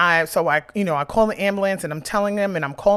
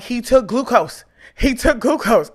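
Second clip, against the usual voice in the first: higher and louder, a mother shouting at staff; frantic retold shout; 6 semitones higher, 6 dB louder than usual. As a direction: shout it at the nurses in panic. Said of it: "I'm like".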